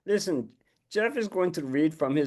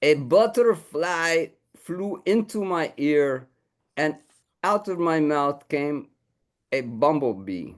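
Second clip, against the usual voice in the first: lightly raised, slow puppet voice reciting; puppet dog recites haiku; 4 semitones higher, 3 dB louder, slower than usual. Acted. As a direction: recite the first draft with mock gravity. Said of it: "It goes like this".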